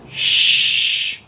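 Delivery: a whispered shush, unvoiced; hushing. Tenali Raman hushing the impatient courtiers, whispered.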